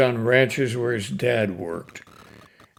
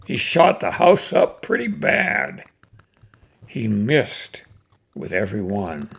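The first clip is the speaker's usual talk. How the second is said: cowboy poem recitation. Acted. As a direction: recite it like a fireside cowboy yarn.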